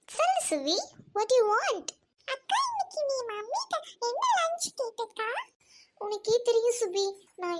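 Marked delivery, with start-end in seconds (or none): 2.3-5.3 little sister voice. Acted. Younger sister asks elder sister.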